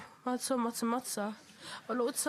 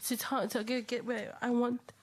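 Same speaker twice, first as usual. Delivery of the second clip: stumbling over words with emotion; halting, choked-up restart; stuttering. Real, not acted. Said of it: "Sorry guys for the, um, stuttering".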